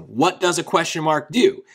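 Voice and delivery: "What does a question mark do?" going up on "do"; a demonstration question with a rising "do"; asked as a question. Shown as a demonstration. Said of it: "So I just asked one".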